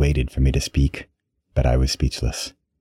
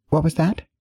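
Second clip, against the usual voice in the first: snarky; 13 semitones higher than usual. A narrator's reading. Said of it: "in the snarkiest, meanest tone".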